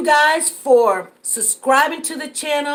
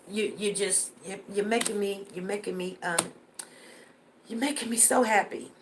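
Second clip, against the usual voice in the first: choked up; 5 semitones lower, 10 dB quieter than usual. Real, not acted. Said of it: "Before I get emotional".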